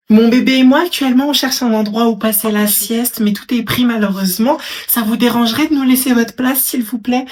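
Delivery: loud, fake-polite demand for the seat; a loud entitled woman asking strangers to move; loud pushy request. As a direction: push them off the bench with loud politeness. Woman with reborn doll begs bench.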